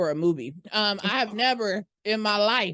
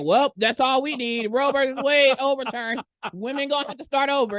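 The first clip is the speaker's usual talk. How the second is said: raised-pitch, sweeping mock verdict; mock decree; 6 semitones higher, 3 dB louder than usual. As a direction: announce it like an indignant mock ruling. Mocking authorities in mock rant.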